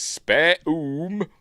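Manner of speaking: high, loud questioning echo; puzzled faun. Retold or imitated. Faun mishearing the girl's words, puzzled high echo. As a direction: repeat it as a puzzled, rising question. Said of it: "and he says".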